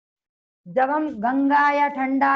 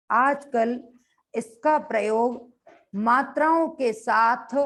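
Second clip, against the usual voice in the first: slow, phrase-by-phrase dictation voice; teacher dictating notes so students can write; slower than usual. Shown as a demonstration. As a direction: dictate each chunk slowly with pauses.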